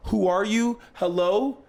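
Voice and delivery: high-pitched mock alarm; acted startled confusion, high voice; scared, bewildered. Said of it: "you're, like, scared".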